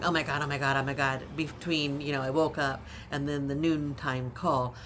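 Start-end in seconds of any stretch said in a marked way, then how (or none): 0.0-1.2 louder, rapid-fire mock panic; retelling a mild freak-out, words tumbling over; retold wigging out. Daughter waiting anxiously for the doctor's call, retold panic. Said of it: "sort of wigging out going".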